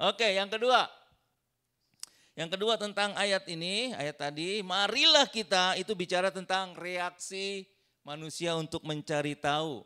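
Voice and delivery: high and loud announcing the next point; energetic preacher's announcement; preaching. Real, not acted. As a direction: call out the next point to the church. Preaching at full force.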